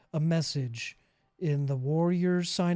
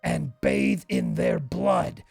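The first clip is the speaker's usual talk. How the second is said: flustered servile NPC. Acted. GM voices flustered NPC reply.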